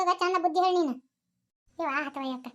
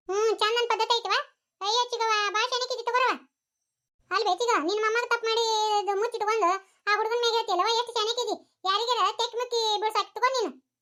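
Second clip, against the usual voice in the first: higher, mocking tone of false admiration; sarcastic praise; 5 semitones higher than usual. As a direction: needle her with fake praise. Mocking the aunt as clever.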